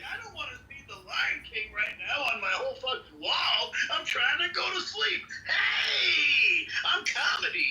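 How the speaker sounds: high, shouted mock of the rival; mocking impression. Mocking imitation of rival Comedy.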